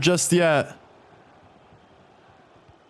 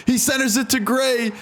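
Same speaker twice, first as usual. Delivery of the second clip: exasperated disbelief; 5 semitones higher than usual. Real, not acted. Conceding second goal, exasperated.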